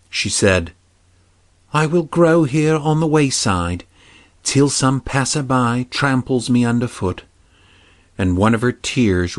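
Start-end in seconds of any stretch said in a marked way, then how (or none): 1.7-7.2 lightly voiced sad princess, higher; a touch of grief in a maiden's voice; sorrowful princess. Hyacinthia speaks in story.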